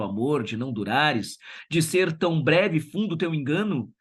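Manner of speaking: a teacher reading a sonnet in the manner of Camões. Acted. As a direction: read it like a Camões love sonnet. Teacher reads sonnet aloud.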